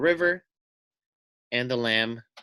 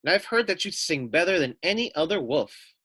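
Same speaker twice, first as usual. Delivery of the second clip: sly little lamb; 4 semitones higher, 4 dB louder than usual. Acted. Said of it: "said the lamb".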